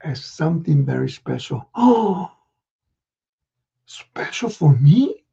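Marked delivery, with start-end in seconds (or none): 1.7-2.3 breathless high gasp of delight; a child amazed by a gift; surprised gasp. Acted. Ricky gasping at Santa's surprise. 3.9-5.2 slow breathless whisper; awed whisper. Acted. Ricky whispering in awe to Santa.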